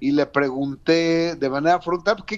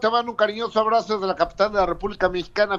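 lightly raised, quick gossip host; Gustavo Adolfo Infante; 4 semitones higher, faster than usual. Acted. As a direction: rattle it off like a showbiz reporter. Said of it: "mi querido Gustavo".

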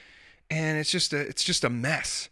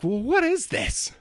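put-on much higher, slow, whiny child asking; suspicious kid; 13 semitones higher, slower than usual. Picky daughter questioning her dinner: high, slow, whiny suspicion. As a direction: drag it out like a picky eater. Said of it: "She's like".

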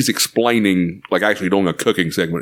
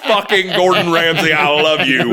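pitched-up adoring exclamation; gushing fan; 7 semitones higher than usual. Retold or imitated. Viewer reacting to the chef's joke, gushing. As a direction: gush with amused admiration. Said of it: "I was like".

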